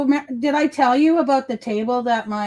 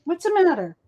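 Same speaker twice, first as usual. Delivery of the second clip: cooing pet talk; 9 semitones higher than usual. Real, not acted. Owner asking her dog about the lost treat, high cooing baby talk. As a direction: coo at her like a worried mom.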